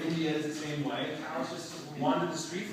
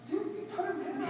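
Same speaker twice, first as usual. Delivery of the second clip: much higher, laughing through the question; laughing disbelief; 4 dB quieter, much faster than usual. Retold or imitated. Retelling the kids' moon question, laughing. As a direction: crack up while asking in mock disbelief.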